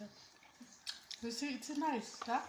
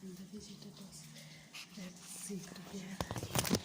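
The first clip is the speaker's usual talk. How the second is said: whispering; 3 semitones lower, 5 dB quieter than usual. Real, not acted. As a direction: whisper it, hiding the prank. Secret prank aside to camera.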